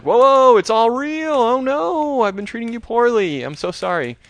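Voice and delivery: high, loud hammed-up terror; mock panic. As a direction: shriek it like a panicking teen. Sister panics, apologizes.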